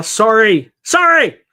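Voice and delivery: imitating a Canadian sorry, rising to a high loud yelp; Canadian accent, exaggerated sorry; mock Canadian. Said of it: "in Canadian".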